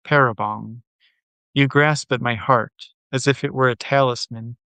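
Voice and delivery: measured, understated poetry reading; poem reading. Acted. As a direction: read the poem out line by line, pausing between phrases. Reads a poem aloud.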